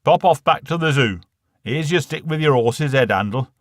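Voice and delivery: a cheeky dad egging on the lad; loud cheeky dad. Acted. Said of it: "he said".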